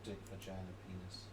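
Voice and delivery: softly spoken test words; talking quiet. Real, not acted. Testing the mic for a friend, talking quiet. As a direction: say the words quietly, under normal volume. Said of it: "you're just talking quiet now".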